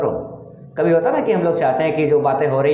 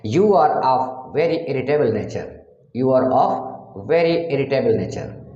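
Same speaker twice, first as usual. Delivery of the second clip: 1 slow demo; much slower than usual. Shown as a demonstration. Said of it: "teacher demonstrates English sentence".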